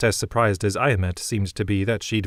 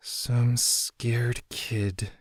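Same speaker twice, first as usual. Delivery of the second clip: slow, quiet, pained answer; 3 semitones higher, 5 dB quieter, much slower than usual. A narrator's reading. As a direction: drag it out through the hurt. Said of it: "A shaky exhale".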